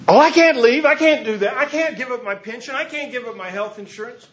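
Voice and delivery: mock whining that he can't leave; pleading clergy. Clergy quoted refusing to leave.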